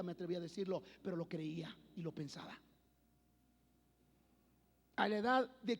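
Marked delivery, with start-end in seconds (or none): 0.0-2.6 whispered confession. Real, not acted. Confessing childhood secret thoughts.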